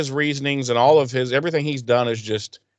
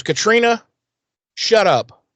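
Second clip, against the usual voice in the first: high, raised-voice retold rebuke; mock exasperation; 10 semitones higher, 5 dB louder than usual. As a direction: act out silencing a girlfriend. Acted quarrel, silencing girlfriend.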